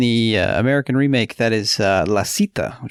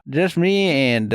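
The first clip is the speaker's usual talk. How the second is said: put-on higher, slow old miner whine; old prospector; 4 semitones higher, slower than usual. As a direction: trail off like a lonely old miner. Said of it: "guy, prospector".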